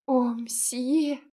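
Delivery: happy gasp of gratitude to the baker; overjoyed. Acted. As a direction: burst out with delight. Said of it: "обрадованно по-французски".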